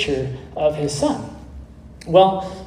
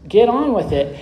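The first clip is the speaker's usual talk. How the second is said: higher-pitched mock protest; retold anger; 6 semitones higher, 3 dB louder than usual. Impatient bidders protest to the auctioneer, mildly angry in the retelling. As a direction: imitate an annoyed crowd, pitch raised throughout. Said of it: "people started to get angry".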